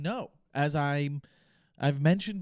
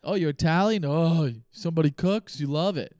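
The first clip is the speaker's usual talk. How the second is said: mock gushing fan; 2 semitones higher, 7 dB louder than usual. People gushing about Italian food.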